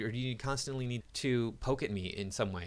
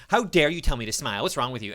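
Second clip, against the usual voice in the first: mock indignation; 2 semitones higher, 5 dB louder than usual. Mocking feminists' indignant reply.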